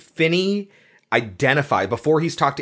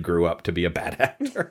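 laughing; 6 semitones lower, 5 dB quieter than usual. Real, not acted. Joke about the Boyhood kid.

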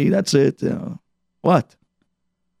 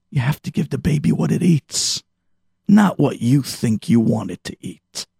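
usual speaking voice

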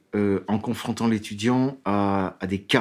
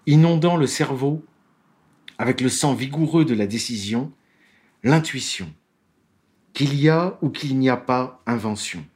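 higher, formal reading of a quoted passage; reading aloud; 3 semitones higher than usual. Shown as a demonstration. Law lecturer reads a judge's testimony to his audience, formal reading voice. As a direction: read the judge's words out with measured weight. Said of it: "Je vais vous le lire".

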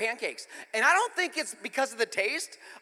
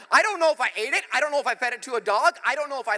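mock bewilderment; 4 semitones higher, 6 dB louder, faster than usual. Comic panic over forgotten ending.

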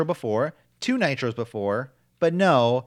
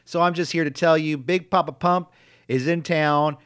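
wrestling promo; 3 semitones higher, 4 dB louder than usual. Retold or imitated. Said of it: "He says".

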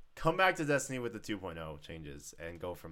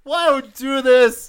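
much higher, louder wail, voice breaking; voice cracking; 19 dB louder, slower than usual. Real, not acted. Student despairing over a game release clash, voice cracking. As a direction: cry out slowly until the voice cracks. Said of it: "My voice is cracking".

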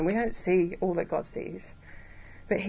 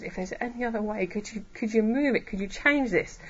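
humble plea. Acted. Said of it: "recognizing this is hard".

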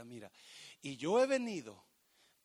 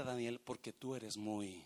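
soft angel voice; 5 semitones lower, 6 dB quieter than usual. Acted. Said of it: "el ángel viene y le dice".

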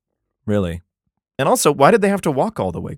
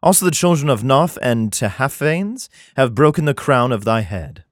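measured, solemn Bible reading; scripture reading. Acted. Comedian reads Jeremiah to his audience, solemn scripture reading. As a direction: read it like King James scripture.

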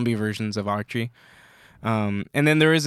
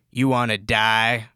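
menacing villain; 3 semitones lower, slower than usual. Retold or imitated. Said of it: "he goes".

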